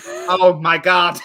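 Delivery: slow, loud, high dismay; despairing robot. Retold or imitated. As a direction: drag it out in horror. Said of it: "the robot's like".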